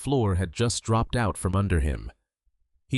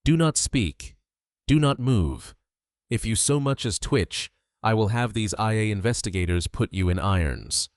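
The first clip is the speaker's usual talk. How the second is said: loud commanding. Acted. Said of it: "the sheer volume rattling the windows".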